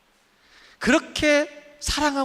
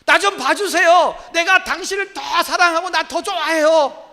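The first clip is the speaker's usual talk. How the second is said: pleading fan; 6 semitones higher, 6 dB louder than usual. Retold or imitated. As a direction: beg the idol to notice you, half laughing. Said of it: "아이들이 막 소리, 소리 질러요".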